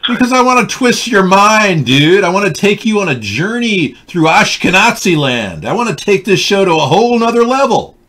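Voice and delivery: put-on lightly done Jewish accent, high and loud. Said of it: "why are you doing the Jewish accent".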